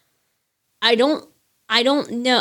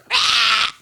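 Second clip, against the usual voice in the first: imitating a real scream, not at full force; actual scream imitation; 4 semitones higher than usual. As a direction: show how a real scream would go. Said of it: "how would that go if you're actually screaming?".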